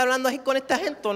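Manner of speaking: quick, light Acapulco accent. Shown as a demonstration. Comic showing the crowd how Acapulco people talk, Acapulco accent. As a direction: slip into an Acapulco coastal accent. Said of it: "en el acento acapulqueño".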